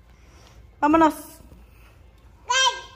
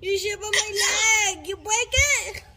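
mock hurt yelp; 5 semitones higher, slower than usual. Real, not acted. Kid stepped on her, mock hurt.

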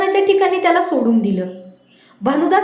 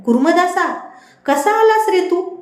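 surprised question; 4 semitones higher than usual. Acted. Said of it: "आश्चर्याने विचारलं".

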